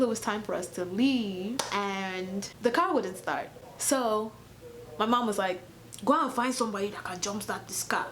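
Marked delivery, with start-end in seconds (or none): 6.0-8.1 acted African-accented mom giving an order; African mother's accent. Retelling her African mother's order.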